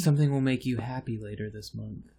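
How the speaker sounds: lightly voiced mystic predicting the future; a hint of a fortune teller reading your fate. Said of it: "That was a good fortune teller voice".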